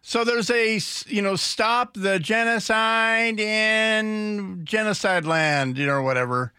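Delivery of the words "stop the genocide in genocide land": slow, drawn-out mocking protester chant; mock heckler. Radio host mocking a protester heckling Pelosi, slow sneer. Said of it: "she's heckling".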